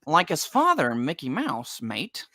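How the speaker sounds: mock Australian accent. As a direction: toss it off like a joking Aussie. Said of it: "Is he Australian?".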